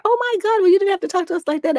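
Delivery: high, fast, scandalized squeal; mock shocked churchgoer. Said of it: "And they were like".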